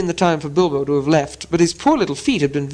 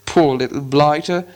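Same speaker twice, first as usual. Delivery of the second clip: pitying troll. Acted. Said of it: "said William".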